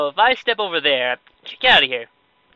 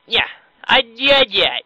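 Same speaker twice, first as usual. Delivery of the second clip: higher, put-on idiot voice; 5 semitones higher, 5 dB louder than usual. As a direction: blurt it as a mocking idiot. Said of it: "that's my, I, yeah voice".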